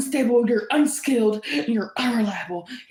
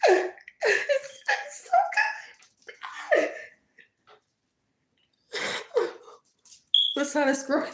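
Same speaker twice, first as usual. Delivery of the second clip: mock weepy envy; 2 semitones higher than usual. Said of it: "Anyway, back in character".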